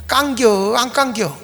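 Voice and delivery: short, drawn-out Chungcheong question; Chungcheong dialect. Shown as a demonstration. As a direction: ask it simply, like a Chungcheong local. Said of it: "충청도 사람들은 굉장히 쉽게 답합니다".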